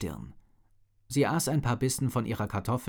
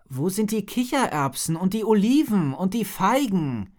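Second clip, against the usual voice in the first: put-on demanding girl; 9 semitones higher, 5 dB louder than usual. A narrator's reading. Petra demands her food.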